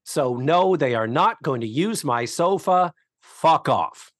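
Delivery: acerbic, cutting. Retold or imitated. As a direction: rattle off a lightly acted scornful dismissal. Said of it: "in her acerbic, cutting way".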